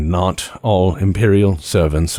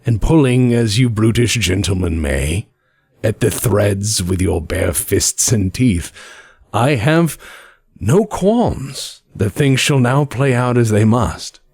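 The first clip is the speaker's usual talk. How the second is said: silky spymaster. Acted. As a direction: purr it like a patient puppetmaster. GM voicing contact.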